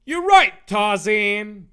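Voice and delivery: loud, high cry of agreement; hammed-up high heroic yell; rallied hero. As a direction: shout it with sudden resolve. Dave rallies, answering cheer.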